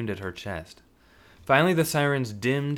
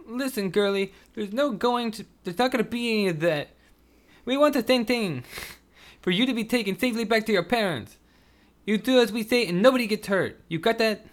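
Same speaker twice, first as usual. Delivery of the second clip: high put-on hard voice; menacing threat; 13 semitones higher, 3 dB louder than usual. Sam warning the gagged girl, menacing. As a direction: threaten her coolly.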